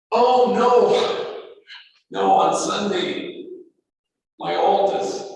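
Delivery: high, loud imitation of an anxious father; retold panic. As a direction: plead anxiously, pitched well up, as a retold call. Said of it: "kind of with panic in his voice".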